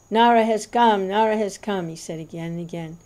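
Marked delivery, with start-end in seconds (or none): 0.1-1.9 loud, exultant call; roaring proclamation. A narrator's reading. The Lord roars from Vishnu's throne to devotees. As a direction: proclaim it with a roar.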